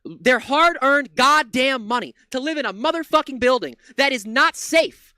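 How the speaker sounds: fast, heated, swearing rant; angry rant. Real, not acted. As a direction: let it all boil over. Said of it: "this is just totally me ranting right now".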